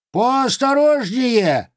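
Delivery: high, slow indignant cat; complaining cat. Acted. (возмущённый кот)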